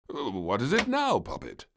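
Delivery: worried. Acted. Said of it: "asked the King worriedly".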